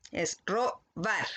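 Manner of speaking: slow robar with the last syllable stressed; slow stress demo. Shown as a demonstration. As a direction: stretch out robar, leaning on the bar. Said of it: "se marca en la segunda sílaba". (robar lento, marcando la segunda sílaba)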